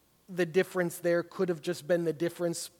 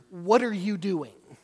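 louder, slower, accusing; exasperated; 6 dB louder, slower than usual. Shown as a demonstration. Bible study leader voicing the verse as an exasperated accusation. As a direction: demand it, fed up and annoyed. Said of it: "this exasperated".

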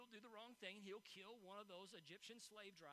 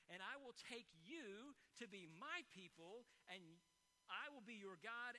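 scripture reading. Acted. Reads Exodus passage aloud.

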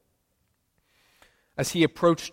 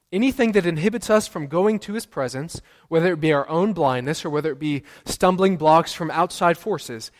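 rising preacher fervor; 3 semitones higher, 4 dB louder than usual. Acted. Preacher building intensity.

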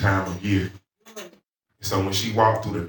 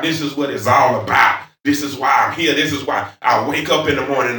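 preaching; 5 semitones higher, 4 dB louder than usual. Real, not acted. Preaches, voicing a believer's conviction.

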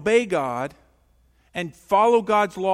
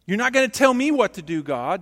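defiant rebellion; 3 semitones higher, 5 dB louder, faster than usual. Retold or imitated. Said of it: "It's not rebellion".

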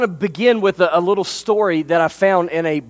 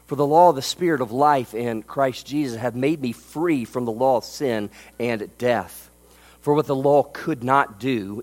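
scripture reading; 3 semitones lower than usual. Acted. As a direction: read the verse with reverence. Reads scripture aloud.

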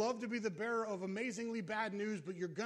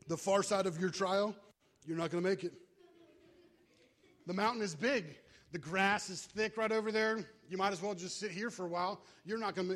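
loud, jeering tempter; taunting devil voice; 4 dB louder than usual. Acted. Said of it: "You start to hear things like".

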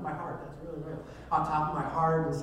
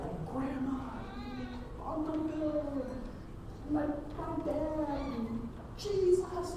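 high, drawn-out acted greetings; awed reunion cries; 14 semitones higher, much slower than usual. Newcomer greets family in heaven, overjoyed. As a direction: call each loved one in high, stretched-out wonder.

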